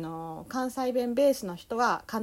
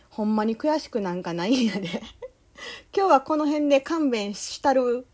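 louder, playful Kansai-dialect reading; mock Kansai dialect; 3 semitones higher, 5 dB louder than usual. Host reading out a listener's boastful letter, mock Kansai dialect. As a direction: read it out in hammed-up Kansai-ben. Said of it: "関西弁をちゃんと話す".

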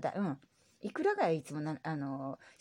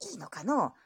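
lightly voiced old grandpa; grumbly old grandpa reply; old man voice. Grandpa character voice.

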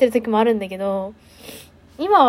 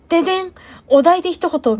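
game show host; 6 semitones higher than usual. Retold or imitated. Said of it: "みたいな感じで".

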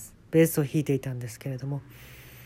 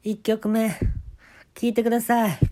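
higher MC-style announcement; band MC voice; 5 semitones higher than usual. Retold or imitated.

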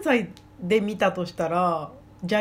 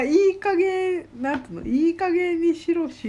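Gunma dialect scold; 9 semitones higher than usual. Retold or imitated. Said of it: "みたいな".

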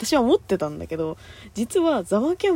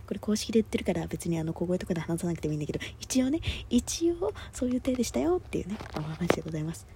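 quiet voice; 7 dB quieter, faster than usual. Real, not acted.

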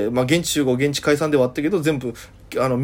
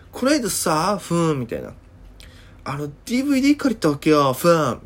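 put-on chatty girl dropping a hum between phrases; Okinawan girl chatter. Okinawan girl telling the teacher about a DVD, lightly mimicked. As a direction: lightly mimic a gossiping girl, humming fillers. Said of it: "ふーんってかましてくるんですよ".

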